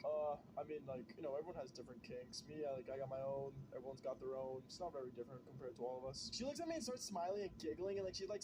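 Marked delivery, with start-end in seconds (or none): 0.0-6.3 awkward reply. Retold or imitated. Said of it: "I'm like".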